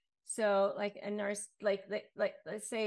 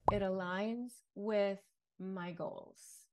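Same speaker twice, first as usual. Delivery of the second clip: calm model reply; slower than usual. Shown as a demonstration. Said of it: "just say".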